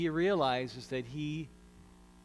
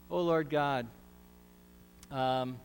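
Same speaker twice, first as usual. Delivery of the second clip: prayer. Acted. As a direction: pray it humbly, unhurried. Leads a prayer.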